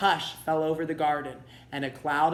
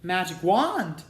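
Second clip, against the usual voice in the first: gasping; 4 semitones higher, 5 dB louder, slower than usual. Acted. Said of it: "gasped Cinderella".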